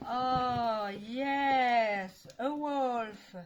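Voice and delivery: a loud happy oh yes; excited yes. Real, not acted. Vlogger unwrapping a wolf doll, excited. Unboxing a doll she loves.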